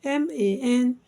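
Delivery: letter groups with pauses, settling at the end; spelled by syllables. Shown as a demonstration. Teacher spelling salamander for learners, syllable by syllable. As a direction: spell in separated chunks, punching the lone A. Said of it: "Salamander divided into four syllables".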